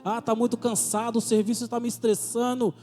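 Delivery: urgent revival-style exhortation; fiery preaching. Acted. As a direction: thunder the warning at the church. Preaching at full force.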